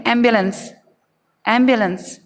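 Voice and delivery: एम्बुलेंस as "AM-byuh-luhns"; teacher's joined-up "AM-byuh-luhns"; correct, joined up. Shown as a demonstration. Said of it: "एक साथ बोलने पर".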